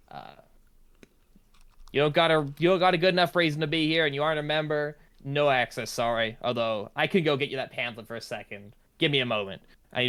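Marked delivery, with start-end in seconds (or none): 1.9-6.4 louder, brisk gatekeeper refusal; dismissive refusal. Acted. Librarian turning away non-members, mildly loud dismissal. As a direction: brush them off fast.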